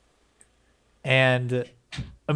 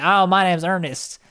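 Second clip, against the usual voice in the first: put-on country accent; 5 semitones higher than usual. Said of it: "stupid country accent. And he talks like this".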